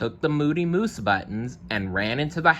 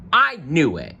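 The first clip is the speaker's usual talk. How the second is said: high, louder scream; 7 semitones higher, 4 dB louder than usual. Acted. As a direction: scream it out in alarm. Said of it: "screamed Alligator".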